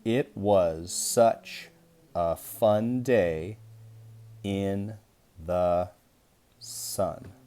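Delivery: very slow, word by word; slow choral reading. Shown as a demonstration. Teacher reading slowly with the class, word by word. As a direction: read it slowly so kids can follow along. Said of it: "See if you can read that with me".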